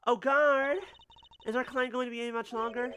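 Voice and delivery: loud, high call for the guard. Retold or imitated. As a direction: call out across the room. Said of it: "Like shouting".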